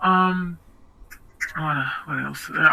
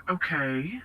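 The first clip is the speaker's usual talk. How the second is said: retold meek acceptance; 2 semitones lower, 10 dB quieter than usual. Retells meekly accepting his guilt trip.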